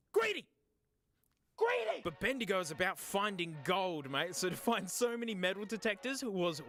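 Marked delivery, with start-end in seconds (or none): 0.1-0.5 high, loud teasing accusation; mock scold. Mock scolding the snack dish. 1.6-2.0 playful outraged yelp; mock scold.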